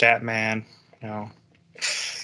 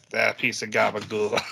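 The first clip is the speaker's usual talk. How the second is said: fake Italian accent; 2 semitones lower, 5 dB quieter than usual. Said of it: "obnoxiously fake Italian".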